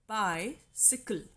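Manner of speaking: BI-cy-cle, slow, weight on "bi"; dactyl stress. Shown as a demonstration. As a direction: stress "bi" in "bicycle", then two lighter syllables. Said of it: "Stressed syllable is followed by two unstressed".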